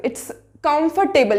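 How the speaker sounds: comfortable said slowly as kumf-tuh-bul; comfortable drawn out without the r; careful kumf-tuh-bul. Shown as a demonstration. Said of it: "कंफर्टेबल".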